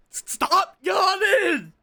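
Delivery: high, drawn-out yell; slow, loud shout. Real, not acted. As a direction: yell it out slowly, half crying. Shouts at himself over yawning.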